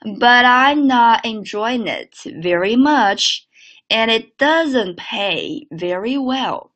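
slow linked model read; slow teacher's model. Shown as a demonstration. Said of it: "整个句子连起来".

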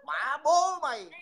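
slow, heavy cursing; slow loud curse. Real, not acted. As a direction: spit the curse out slowly and loud. Angry insult in a quarrel.

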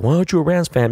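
high whiny mock question; mocking fans. Rams fans at the bar asking why he backs Seattle, mock whiny voice. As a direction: imitate annoying fans.

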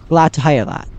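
put-on British accent. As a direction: read the character's reply with a British accent. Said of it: "I'm saying in a British accent".

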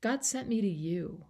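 a touch of tender reassurance, softened; calmly voiced Jesus soothing a confused Pharisee; gentle Jesus voice. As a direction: speak to Nicodemus like a kind friend. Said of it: "God says".

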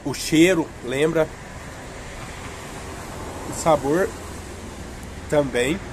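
speaking between bites of popsicle; talking while eating. Real, not acted. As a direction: mouth partly full, chewing. Seen 3: Holds a bitten popsicle, mouth chewing between bites while speaking.

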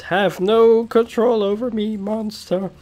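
heroic warrior voice. Acted. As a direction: defy the monster proudly. Player voices hero against monster.

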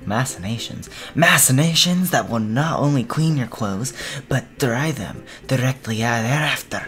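put-on dramatic announcer in a vague European accent. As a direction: pitch the washer like a posh foreign announcer. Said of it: "a European accent a-, after the dramatic announcer".

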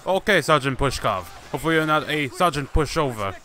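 badly faked Russian accent; put-on Russian accent. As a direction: answer in a mock Russian soldier's accent. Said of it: "this bad Russian accent".

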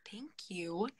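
soft breathy whisper; just breathe the thanks out. Real, not acted.

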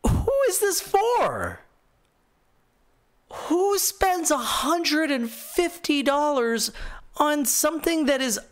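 incredulous. Real, not acted. Ranting at a pricey gadget.

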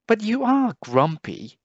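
high, fond mother voice teasing; high cooing tease; teasing mum. A narrator's reading. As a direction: tease him gently like a mum.

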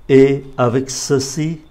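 Et avec ceci with a rise at the end; questioning rise on ceci; rising question tune. Shown as a demonstration. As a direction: lift the voice on the last word of Et avec ceci. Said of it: "trước các cái câu dấu hỏi này thì chúng ta lên giọng".

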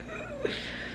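soft exasperated breath out; fretful sigh. Shown as a demonstration. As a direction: sigh as if overwhelmed by mess. Acts out fretting over mess.

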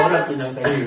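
words through laughter; amused confession; laughing. Real, not acted. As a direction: say it still laughing. Laughing while telling.

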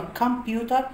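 British "كمبيوتر" with a crisp, clear t. Shown as a demonstration. Teacher shows students the British "كمبيوتر". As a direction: say "كمبيوتر" the British way, t fully sounded. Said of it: "دي تبقى بريتش".

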